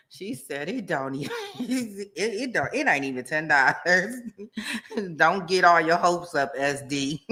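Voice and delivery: helpless giggles breaking up the words; laughing to tears. Real, not acted. Streamer reads Merelda's joke, laughing to tears. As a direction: read it out while cracking up. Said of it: "now I'm crying tears".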